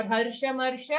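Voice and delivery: हर्षमर्ष with both "sha" vowels short; हर्षमर्ष with a short first "sha"; mispronounced short vowel. Shown as a demonstration. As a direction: quickly say हर्षमर्ष, no long a in the middle. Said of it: "okay, not".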